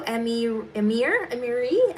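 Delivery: trying out "Emir" and "Emiri", unsure of the name; "Emir", "Emiri" as questioning attempts at a name; unsure pronunciation. Real, not acted. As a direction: sound out "Emir" tentatively, then try "Emiri". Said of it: "sorry if I'm mispronouncing that".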